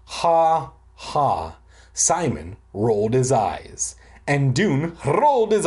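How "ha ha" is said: mock snicker. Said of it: "I snickered".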